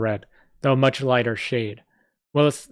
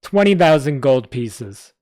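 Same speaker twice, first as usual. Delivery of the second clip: serious goblin; 2 semitones higher, 6 dB louder, slower than usual. Acted. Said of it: "The goblin grew serious".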